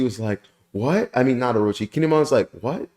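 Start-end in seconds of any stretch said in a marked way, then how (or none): 0.7-1.1 mock startled "what", rising high; surprised. Reviewer retelling a character's reaction, mock surprised. 2.6-2.9 quick rising mock "what?"; surprised. Reviewer retelling Kinemon hearing a voice, mock surprised.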